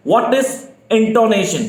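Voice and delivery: very slow and drawn out, every word of "what is intonation?" spaced for writing; slow dictation. Shown as a demonstration. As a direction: dictate it slowly for the class. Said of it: "आप लोग लिखना शुरू कर दें". (धीमी गति से "what is intonation?" लिखवाना)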